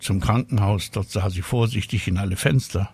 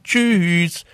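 high, louder, sing-out farewell; cheery goodbye call; 8 semitones higher, 4 dB louder than usual. A narrator's reading. Child ending a phone call with Papa, called out brightly. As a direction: call out a drawn-out bye.

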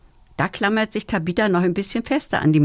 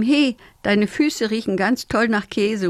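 cheeky call; 4 semitones higher than usual. Acted. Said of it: "ruft Tabitha".

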